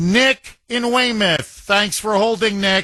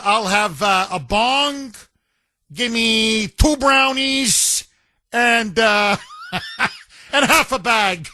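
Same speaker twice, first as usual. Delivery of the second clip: mock drive-through order; 2 semitones higher, slower than usual. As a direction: ham up a stoner ordering at the window.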